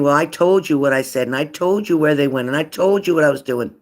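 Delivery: mock argument, voice climbing a little. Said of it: "the words tend to get louder and they're louder".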